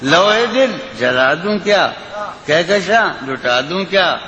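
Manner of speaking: lilting, sung-through recitation of a ghazal; poetry recitation. Acted. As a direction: recite it like at a mushaira. Recites the closing lines.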